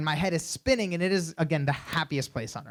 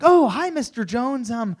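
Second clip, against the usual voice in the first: high, eager nervous hello; nervous greeting; 9 semitones higher, 5 dB louder than usual. Retold or imitated. Young guest greeting a music legend, nervously high. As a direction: greet the legend a little starstruck.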